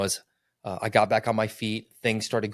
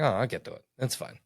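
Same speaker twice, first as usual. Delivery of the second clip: stubborn denial; faster than usual. Retold or imitated. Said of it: "I'm bullheaded".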